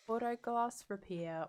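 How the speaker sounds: jingle words with an Australian twang; Australian accent. Shown as a demonstration. Streamer trying the glass repair tune, Australian accent. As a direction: accidentally slip into an Australian accent. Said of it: "do it in an Australian accent".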